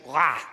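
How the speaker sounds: short, loud mock roar; quick burst imitating her attack noise; imitated snarl. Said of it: "when she went".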